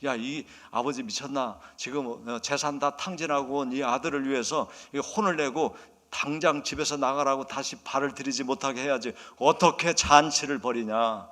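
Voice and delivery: mildly acted indignation, building at the end; grumble, then stretch out the final outraged question; angry older brother. Older brother protesting the feast for his brother, angry. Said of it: "그러니까 막 화가 난 거예요".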